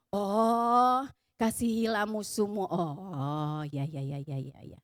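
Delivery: low, trailing-off dutiful nodding along; mock passive agreement. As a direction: imitate a listener absently agreeing with a sermon. Mimics sermon listeners nodding along. (meniru jemaat manggut-manggut, suara rendah)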